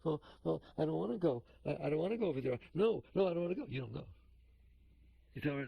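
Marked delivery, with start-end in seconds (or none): 0.0-3.7 balking ego. Acted. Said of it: "every single time it opens its mouth".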